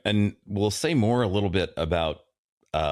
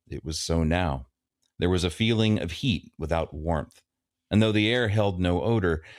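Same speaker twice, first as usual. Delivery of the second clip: story reading; 2 semitones lower than usual. A narrator's reading. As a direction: narrate the passage as a reader. Reads the novel aloud.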